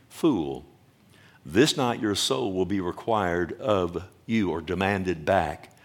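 lightly voiced God, pitched low; God's stern rebuke. God telling the rich man his soul is required, stern. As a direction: drop low and pronounce judgement, measured.

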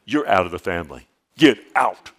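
mock angry parent, "Get out" loud; hammed-up parent yelling at a child; mock kicking out. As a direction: pretend to throw the child out. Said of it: "do you finally go".

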